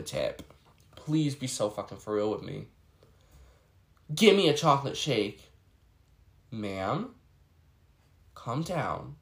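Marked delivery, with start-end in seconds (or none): 4.1-5.5 imitating a rude customer, with a louder stressed "Give"; a bossy demand, "Give" hit hard and falling; mocking rude customer. Server mimics the customer demanding a chocolate shake. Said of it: "I hate when customers say".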